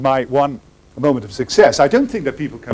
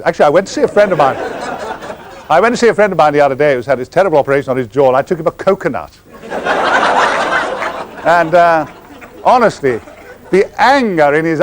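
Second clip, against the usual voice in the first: laughing fast telling; 4 semitones higher than usual. Real, not acted. Laughing at his own anecdote.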